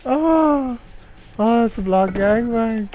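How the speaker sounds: high, loud repeat; excited high exclaim. Real, not acted. Streamer repeats the joke, high and excited. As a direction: say it again still thrilled.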